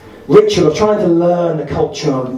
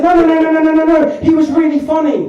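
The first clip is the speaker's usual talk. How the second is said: imitating wife; 12 semitones higher than usual. Comedian voicing wife insisting he was funny, higher. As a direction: squeal the no's like his wife. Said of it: "So Alexis said".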